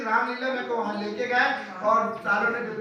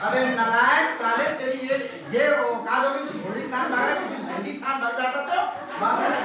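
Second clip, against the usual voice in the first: scolding father; 3 semitones higher, 6 dB louder than usual. Retold or imitated. Father on the phone scolding his son for running off, angry. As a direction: berate your runaway son down the phone.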